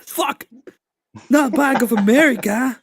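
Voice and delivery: mock dismay. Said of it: "it's like".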